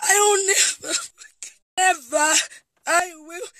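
broken, tearful vow; crying. Real, not acted. Vowing never to forgive him, in tears. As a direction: choke through the words.

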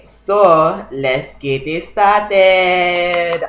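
very slow, stretched syllables; drawn-out kickoff. Real, not acted. Vlogger launching the chat session, slow and drawn out. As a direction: stretch out the last word playfully.

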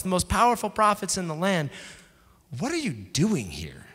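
God voiced as an exasperated buddy, lightly; casual God paraphrase. God scolding Elijah in the cave, as an exasperated buddy.

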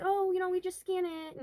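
high, sing-song mock clerk voice; imitating the greeter. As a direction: mimic a chirpy store greeter. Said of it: "she's like".

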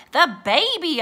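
high, loud alarmed yell. A narrator's reading. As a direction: yell it over the pirates. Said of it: "I yelled louder than anyone".

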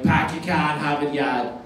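put-on mild Boston accent, R dropped; light Boston voice, slow. Comic doing Boston accent, mild Boston accent. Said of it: "they say in the Boston accent".

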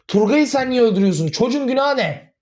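shouting at his mother, voice breaking; tearful shouting. Acted. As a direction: yell the accusation as the voice cracks. Heated family quarrel, near tears.

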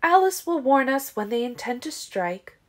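high, loud sheer-voiced Siobhan. Siobhan assuring the covens Alice will warn them, sheer. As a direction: state it with sheer conviction. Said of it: "Siobhan said in a sheer voice".

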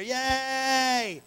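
high, drawn-out childlike mock cheer; hammed-up excited yay; Elmo. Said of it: "You're like Elmo running around".

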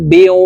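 "বিউ" closing on rounded lips; rounded waw. Shown as a demonstration. Teacher modelling waw for viewers, lips rounded. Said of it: "ঠোঁট গোল করে উচ্চারণ করতে হবে".

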